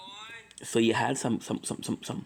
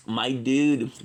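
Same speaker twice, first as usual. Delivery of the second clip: a louder, punchier my dude; emphatic repeat; 5 dB louder than usual. Real, not acted. Repeats phrase, louder take.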